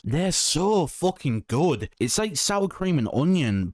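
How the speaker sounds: high, slow, swooning praise; gushing. Real, not acted. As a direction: savour every word. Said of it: "I'm getting, like, emotional about chips".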